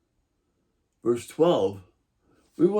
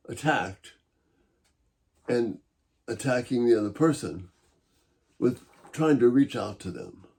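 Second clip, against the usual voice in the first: ordinary talk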